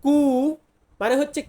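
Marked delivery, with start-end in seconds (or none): 0.0-0.2 কু as a short rounded ku; Italian letter name. Shown as a demonstration. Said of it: "Italian ভাষাতে বলবো কু". (Italian উচ্চারণে কু)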